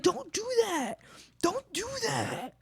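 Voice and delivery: put-on kid coworker pleading. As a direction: beg like a fussy teenager. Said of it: "They're like, come up to me like".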